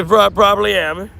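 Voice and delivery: amused emphatic retake; amused emphatic repeat. Real, not acted. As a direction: punch it out with a grin. Repeats answer, laughing.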